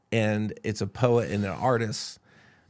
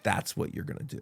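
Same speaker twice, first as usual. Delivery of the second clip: hushed; 5 semitones lower, 9 dB quieter than usual. Retold or imitated. Professor's solemn prophecy, retold.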